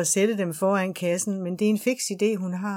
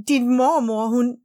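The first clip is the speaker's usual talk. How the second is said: louder and higher, a desperate cry; shouting in despair; 5 semitones higher, 7 dB louder, slower than usual. A narrator's reading. Mother cries out to her daughter, a desperate shout. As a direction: yell it out, head in hands. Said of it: "holdt sit hoved i hænderne og råbte".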